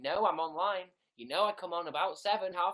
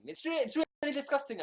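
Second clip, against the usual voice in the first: mock disgust; 9 semitones higher, 4 dB louder than usual. Exaggerated disgust.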